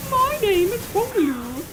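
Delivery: high-pitched, drawn-out put-on voice; Hong Lu. Streamer voicing a game character, high and slow. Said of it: "Hong was like".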